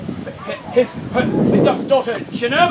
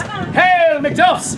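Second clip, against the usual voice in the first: King's messenger; 4 semitones higher than usual. Acted. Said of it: "I am the King's messenger".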